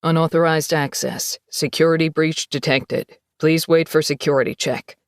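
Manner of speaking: low, flat PA announcement voice; an automated system warning over speakers; computerized voice. Acted. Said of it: "a computerized voice sounded over the P A".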